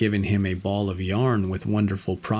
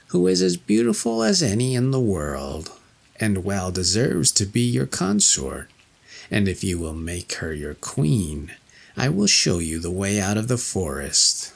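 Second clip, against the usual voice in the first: witch voice. Acted. Witch offering her daughter.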